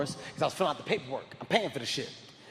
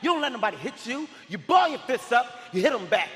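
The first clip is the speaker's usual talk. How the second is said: angry lecture; 5 semitones higher than usual. Retold or imitated. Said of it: "I'm like".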